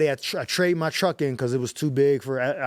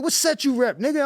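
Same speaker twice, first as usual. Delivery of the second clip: gang member voice; 10 semitones higher than usual. Retold or imitated. Gang member repeats question.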